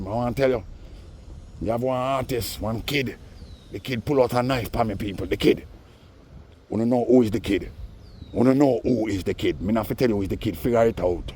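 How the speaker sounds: hammed-up imitation; a touch of a singer's dramatic tone; imitating a singer. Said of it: "That's what he was saying".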